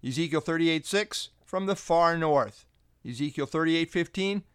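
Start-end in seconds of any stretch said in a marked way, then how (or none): 1.4-2.7 slowed "far north", leaning on "north"; slow, weighted "from the far north"; stress on north. Shown as a demonstration. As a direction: hit "far north" slowly and firmly. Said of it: "note the strong emphasis on north".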